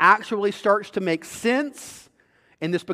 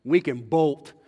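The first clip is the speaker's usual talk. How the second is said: tender dad to daughter; 4 semitones lower than usual. Pretend. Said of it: "I'm gonna be like".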